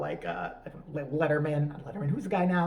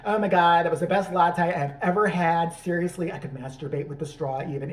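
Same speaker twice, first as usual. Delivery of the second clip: mock white-girl accent, gushing; imitating a Starbucks white girl; inner white girl. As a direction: gush like a caricature American girl. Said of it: "found her inner white girl".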